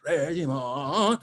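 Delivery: "Régiment" slow and high, rising on a long last syllable; really hit RÉGIMENT. Shown as a demonstration. Coach shows singer the first big hit, "Régiment" stretched upward. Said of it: "first time you really hit something".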